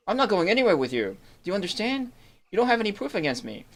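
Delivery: defiant protest. Acted. Voicing accused NPC.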